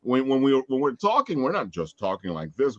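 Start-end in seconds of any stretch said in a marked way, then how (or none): 1.4-2.8 lower, softer, as if reading off a page. Shown as a demonstration. Host showing panelists lifeless delivery, like reading. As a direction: say "talking like this" as if merely reading it. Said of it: "then it sounds like we're reading".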